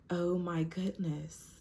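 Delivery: slow whisper in pain. Retold or imitated. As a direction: breathe it out, hurting. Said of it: "I was in so much pain".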